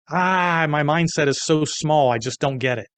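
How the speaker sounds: exasperated wail, high and loud at first; retold outburst of overwhelm, easing off at the end; mock freak-out. Man mocks his own small mindset, acting out freaking out. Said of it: "I'm freaking out".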